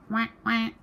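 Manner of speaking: high duck quack. A narrator's reading. Duck's line.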